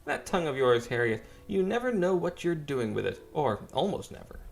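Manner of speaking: older woman mocking a gentleman, mild teasing voice; teasing matron. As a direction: needle him like a catty aunt. NPC teases and scolds.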